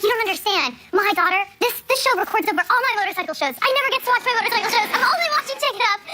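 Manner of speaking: high, fast excited father complaining about his shows; a mock-exasperated fan dad, speeding up; excited dad rant. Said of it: "he's like".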